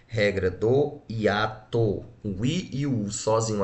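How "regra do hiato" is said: "Regra do hiato" drawn out slowly, each word weighted; teacher stressing the answer "Regra do hiato"; slow emphatic answer. Shown as a demonstration. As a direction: spell out the rule for the class. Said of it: "Por que regra?".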